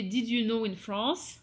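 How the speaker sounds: France said the English way, slow; English accent on France, drawn out. Shown as a demonstration. Naming her Instagram series in an English accent. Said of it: "Bel accent anglais quand je dis France".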